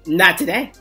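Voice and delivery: low, dismissive mock refusal; acted refusal. Viewer cured of baby fever, refusing in a low voice. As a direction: refuse it low, done with babies. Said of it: "You like".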